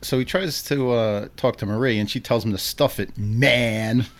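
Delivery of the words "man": MAN drawn out and hit hard; stress on MAN. Retold or imitated. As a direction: lean heavily on the word MAN. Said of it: "She really hits that man".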